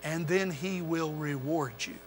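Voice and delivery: gentle fading reassurance; soft tender promise. Acted. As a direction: draw them in with a near-hush. Voicing Jesus' gentle promise.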